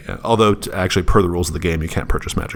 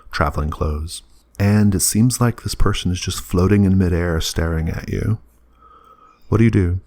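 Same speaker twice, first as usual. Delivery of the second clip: game master narration. Acted. GM sets the dream scene.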